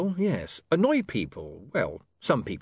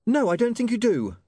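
sharp, higher, louder snap; snapping; 12 semitones higher, 4 dB louder than usual. A narrator's reading. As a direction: snap it back at him. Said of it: "she snapped".

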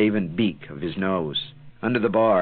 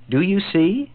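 triumphant; 11 semitones higher, 4 dB louder than usual. Acted. Stranger's triumphant question.

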